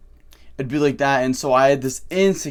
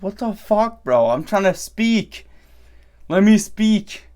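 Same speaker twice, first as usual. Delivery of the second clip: exasperated, higher-pitched plea to be heard; frustrated protest; 5 semitones higher, 3 dB louder than usual. Acted. Ignored guy trying to get a word in, frustrated. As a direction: push it out higher, fed up at being talked over.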